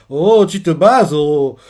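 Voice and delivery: laughing tease. Retold or imitated. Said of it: "vu comment la personne rigole".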